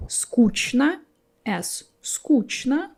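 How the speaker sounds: скучно with a clear "ch" before the n. Shown as a demonstration. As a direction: say скучно as "skooch-na". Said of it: "you can pronounce the word".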